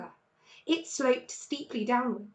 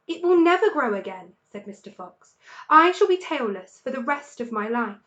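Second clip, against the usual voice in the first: glum; 7 dB louder than usual. Acted. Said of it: "He looked very glum".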